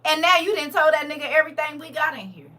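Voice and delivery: angry husband. Acted.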